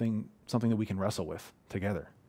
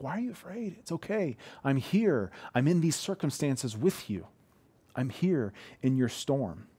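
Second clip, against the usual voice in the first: compassionate Jesus; 3 semitones higher than usual. Retold or imitated. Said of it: "coming from a compassionate standpoint".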